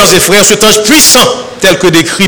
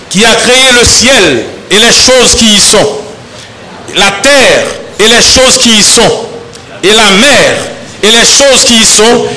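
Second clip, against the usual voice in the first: measured, steady Bible reading to the congregation; solemn scripture reading. Acted. Pastor reading scripture to the congregation, measured and solemn. Pastor reads Revelation 10 aloud.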